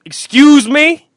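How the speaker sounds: slow loud indignant question. Retold or imitated. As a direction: drag it out offended. Retold reply of stranger.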